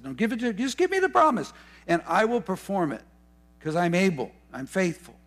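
lifted-up voice of God offering help; God's voice, insistent. Retold or imitated. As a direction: voice God pleading to be trusted.

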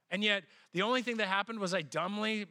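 ordinary talk, nothing marked

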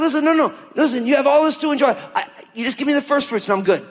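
lightly voiced God, gently insisting; a hint of a generous father reassuring; voicing God. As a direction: pastor voicing God pleading with people to enjoy life. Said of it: "But God's like".

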